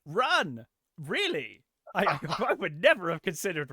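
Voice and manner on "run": raised, louder mock shout; hammed-up shouted command; mock screaming. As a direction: yell it like a needless movie order. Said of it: "a guy screaming pointless shit".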